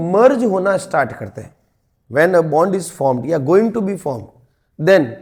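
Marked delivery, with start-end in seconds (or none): 2.1-5.1 slow dictation. Shown as a demonstration. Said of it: "dictating definition to students".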